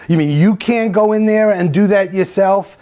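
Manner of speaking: retold condescending jab with a touch of contempt; sarcastic, condescending. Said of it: "kind of sarcasm, kind of a condescending".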